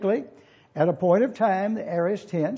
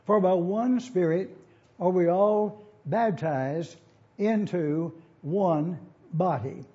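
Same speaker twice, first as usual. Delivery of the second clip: slow, even reading of the smoothed verse; smooth translation read slowly; slower than usual. Shown as a demonstration. Preacher giving the class the smooth rendering, read slowly. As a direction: let the reworded line flow, unhurried. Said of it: "it would go like this".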